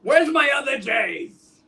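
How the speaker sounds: shouted editor demand; gruff newspaper boss shout. Acted. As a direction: yell like a cranky editor. Jonah yelling in office.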